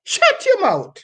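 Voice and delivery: performed as a scolding Jamaican mother in patois; Jamaican patois poem. Acted. Poet performs Miss Lou poem as mother scolding returning son. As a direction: scold the son who came back without any twang. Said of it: "And this one is No Little Twang".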